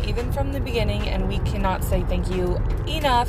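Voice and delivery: upbeat sponsor read, selling it. Acted. Host reads sponsor ad to listeners, upbeat ad read. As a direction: pitch Anchor to the podcast listeners.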